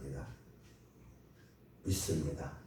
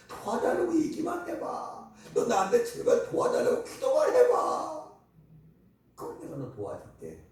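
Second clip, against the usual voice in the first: higher, coaxing voice of God; 3 dB louder than usual. Retold or imitated. Preacher voicing God inviting the people to ask, coaxing. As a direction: urge them just to ask. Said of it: "God's voice voiced".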